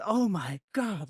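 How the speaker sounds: slow, drawn-out mock disbelief; retold stunned reaction; stunned oh my god. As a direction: let the shock stretch the words out. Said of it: "And I'm going".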